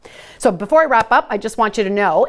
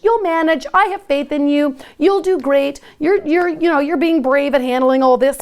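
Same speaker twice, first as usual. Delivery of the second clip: put-on high, lilting sing-song like talking to a little kid; sing-songy voice; 6 semitones higher than usual. Shown as a demonstration. Parent reassuring an anxious child, sing-song. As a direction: cheer them on in a higher sing-song. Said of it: "I'm talking in a sing-songy voice like you have a little kid".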